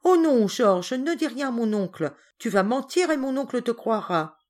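put-on mildly scared child's protest; frightened. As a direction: plead anxiously, starting loud. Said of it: "Geneviève effrayée".

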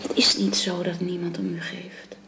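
soft whispered reassurance; reassuring whisper. Acted. Housekeeper whispering comfort to the dying wife. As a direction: whisper it like a promise.

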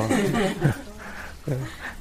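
high, soft chuckle; amused chuckle. Real, not acted. Teacher joking about merging parents' bows, amused chuckle. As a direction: chuckle lightly at your own joke. Amused by his own joke.

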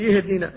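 يهدنا with ya in place of the hamza; mock the mistake, starting with a ya sound; imitated ya error. Teacher mimics a wrong reading: "يهدنا" with ya. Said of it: "ينطقها بالياء".

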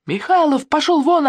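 high furious yell. A narrator's reading. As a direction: shove him off with a shout. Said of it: "орал Егор".

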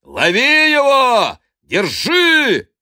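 high, loud cries to catch him; chase shout. Acted. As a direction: yell after the thief. Chasing the fleeing priest.

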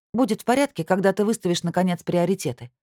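раздражённо, выше и громче, удар на «порядке»; бросить с досадой; буркнув раздражённо. Acted. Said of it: "буркнула я". (раздражённо, «порядке» выше и громче)

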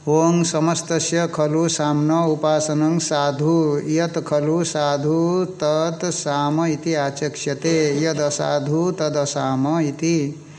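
slow, even scriptural recitation; Sanskrit scripture recitation. Acted. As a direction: recite the verse slowly, drawing out the syllables. (धीमा, एकसुर संस्कृत पाठ)

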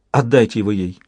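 usual speaking voice

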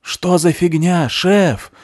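high, loud yell; yelling at the boss over the noise; shouting over a siren. Acted. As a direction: bellow to be heard over the alarm. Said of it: "прокричал Пётр, пытаясь переорать сирену".

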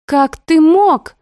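high, slow, loud cry of betrayal; кричит не своим голосом; wild yell. A narrator's reading. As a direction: scream it at your brother. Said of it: "ору не своим голосом".

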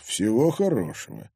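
composed, cold farewell; cold dismissal. Acted. Father seeing intruders out, cold. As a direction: dismiss them without heat. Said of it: "холодно произнёс Егор Зверев".

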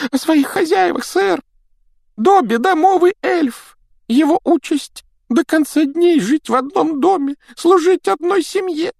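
a small timid house elf; christmas elf. Acted. Домовик Добби говорит. (писклявый голос эльфа)

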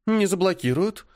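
flat certainty, no doubt; lightly voiced stubborn girl; confident. A narrator's reading. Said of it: "уверенно ответила Полина".

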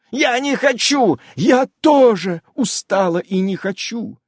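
high, loud cutting in; interrupting. A narrator's reading. Amazon interrupting the dwarf, high and loud. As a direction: cut him off sharply. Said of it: "перебила его Амалия".

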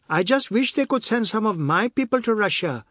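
high, exasperated lament; despairing Miss Blackie. A narrator's reading. Miss Blackie lamenting her people, despairing. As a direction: sigh it out in despair. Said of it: "to express the despair".

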